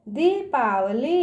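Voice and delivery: दीपावली slowly, both ee vowels held long; long ee sounds. Shown as a demonstration. Teacher showing children how to read it, दीपावली with long vowels. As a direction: stretch दी and ली in दीपावली. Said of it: "इस तरह से पढ़ेंगे".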